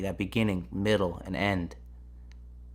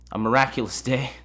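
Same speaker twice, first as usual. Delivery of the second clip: higher, indignant mocking repeat; incredulous echo; 4 semitones higher, 4 dB louder than usual. Narrator repeating a stranger's farewell, incredulous and mocking. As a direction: throw his words back in disbelief.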